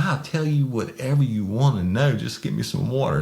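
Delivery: high-pitched imitation of eager begging; mock desperation. Imitating desperate man offering to talk.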